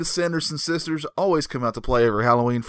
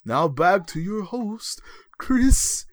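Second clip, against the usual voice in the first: announcer voice; much slower than usual. Acted. Announcer hands back to hosts.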